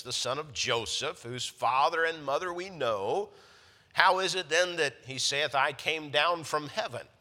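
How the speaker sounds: fervent scripture reading. Acted. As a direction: read the Bible aloud with mounting fervor. Reads scripture with rising fervor.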